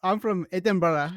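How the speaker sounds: badly faked Edinburgh accent; unconvincing mock-Scottish. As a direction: try a Scottish accent and miss. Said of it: "don't know what accent that is, but that's not Scottish".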